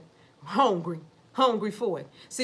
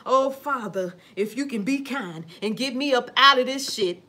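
mock prayer. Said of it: "they start to praying".

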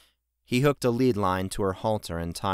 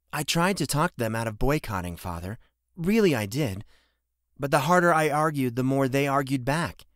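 smiling daughter; 5 semitones higher than usual. A narrator's reading. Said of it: "she said with a smile".

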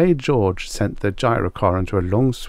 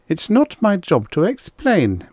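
icy; 10 semitones higher, 3 dB louder, slower than usual. Acted. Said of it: "said icily".

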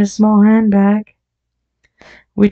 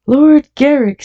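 higher-pitched, mildly astonished repetition; startled echo; 8 semitones higher, 4 dB louder than usual. A narrator's reading. Brother learns who is dying, mildly astonished. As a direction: repeat the name higher, taken aback.

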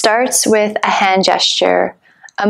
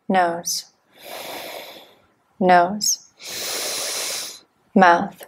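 terse, evenly spaced breathing instructions; measured meditation-teacher cueing; guided breathwork cues. Real, not acted. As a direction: count the breath in and out with single-word cues, long pauses between.

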